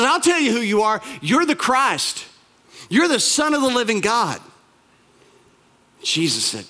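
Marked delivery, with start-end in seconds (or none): 0.0-4.4 bold, higher-pitched proclamation; confident declaration. Acted. Peter speaking up first to answer Jesus, confident declaration. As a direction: declare it with total assurance, stretching key words. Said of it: "Peter's always confident".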